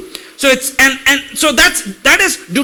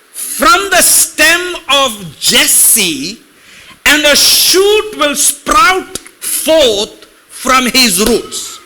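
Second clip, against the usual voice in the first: slow, solemn reading of the verse; slow preacher's scripture recitation; much slower than usual. Acted. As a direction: read the prophecy slowly and reverently.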